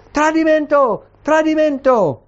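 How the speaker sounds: high-pitched narrated cry of alarm; cried out. A narrator's reading. Queen tearing her robes at the betrayal, high-pitched cry. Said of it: "si stracciò le vesti e gridò".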